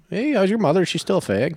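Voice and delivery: imitating a Philly local's accent. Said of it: "you do a decent Philly accent".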